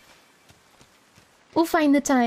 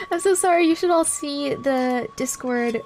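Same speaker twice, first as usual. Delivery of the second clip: slow, drawn-out mock Australian accent; slipping into Australian; slower than usual. Streamer apologising to chat in slow mock Australian. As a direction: let a playful Australian accent creep in. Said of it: "Oh no, I'm turning Australian".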